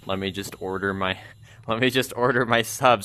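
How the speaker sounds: low, quiet, fed-up groan of a complaint; exasperated customer. Retold or imitated. Annoyed customer tired of the repeating coworker. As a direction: sigh it out, done with her. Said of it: "they're sitting there like".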